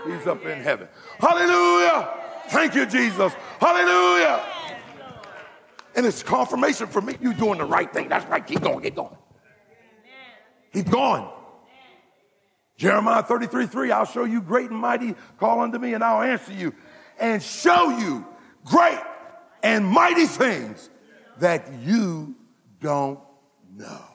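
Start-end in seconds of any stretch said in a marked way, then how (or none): 1.2-4.4 high, loud cry of praise; ecstatic hallelujah. Real, not acted. Pastor praising God before the church, high and loud. 12.8-24.0 preached scripture. Acted. Preached scripture quote, slowed.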